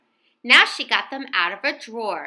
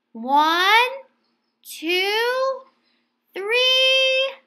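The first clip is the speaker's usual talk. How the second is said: higher sweet bear wife counting; Missus Bear counting down; 8 semitones higher than usual. A narrator's reading. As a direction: count up to the surprise.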